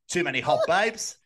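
laughing mock Australian accent; Australian bloke grumbling, half laughing. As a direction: put on a jokey Australian accent. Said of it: "I'm fucking Australian now, mate".

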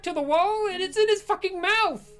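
high, loud, horrified shrieking; horrified screaming. Acted. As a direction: shriek at something gruesome. Host sees bloody guest on screen.

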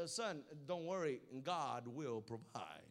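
low, slow fatherly reassurance; Abraham gently calming his son. Retold or imitated. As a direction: soothe the boy slowly, a little low. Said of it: "he did it like that too".

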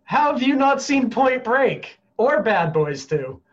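loud, high, slow British mimicry; mock British outrage, drawn out; hammed-up incredulous British accent; British accent impression. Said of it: "You're banned from doing British impressions".

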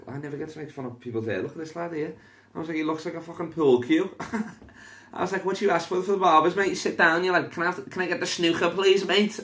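high, energetic roasting; excited roast. Acted. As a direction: roast him with glee. Roasting crowd member high energy.

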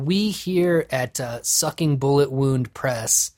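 slow, pompous mock press release; mock corporate statement. Mocking a publisher's anti-racism post, slow and pompous. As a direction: drag it out like a stiff corporate announcement. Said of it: "where it's like".

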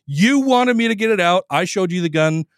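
mock exasperated tell-off; fed-up brush-off. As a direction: imitate a man who wants to be left alone. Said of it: "And Patrick's like".

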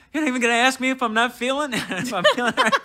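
quick, high, laughing through the words; laughing disbelief. Retold or imitated. Retelling the coworker walking off, laughing in disbelief. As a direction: laugh at how absurd it was.

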